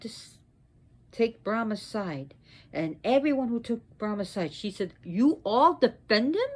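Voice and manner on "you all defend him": indignant question, rising at the end; angry challenge. Acted. Sarasvati confronts all who took Brahma's side, indignant challenge. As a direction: challenge them with mild outrage.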